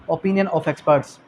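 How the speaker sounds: drawn out word by word; slow dictation. Shown as a demonstration. Teacher repeating the heading slowly for the class. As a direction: stretch the title so students can write it. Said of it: "कौन सा?".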